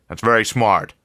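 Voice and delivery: jolly newspaper boss welcoming the new man; effusive editor. A narrator's reading. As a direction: greet him like an old friend with big jolly warmth.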